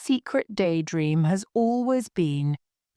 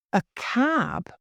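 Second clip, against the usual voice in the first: higher-pitched startled question; 6 semitones higher than usual. A narrator's reading. Lawyer puzzled by his client's request, mildly startled. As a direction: repeat it as if taken aback. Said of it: "repeated in a startled tone".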